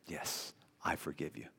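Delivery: a lightly voiced wife granting forgiveness; gentle forgiveness. Wife answering her husband's apology, softly forgiving.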